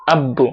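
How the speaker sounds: আব্বু with the b held and doubled; doubled consonant. Shown as a demonstration. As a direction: sound the ব twice in আব্বু. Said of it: "তাসদিদের উচ্চারণ প্রতিটা হরফে দুইবার হবে". (আব্বু-তে ব দুইবার উচ্চারণ)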